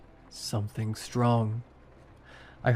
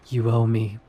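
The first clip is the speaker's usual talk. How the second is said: hissed; 3 dB louder than usual. A narrator's reading. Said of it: "she hissed".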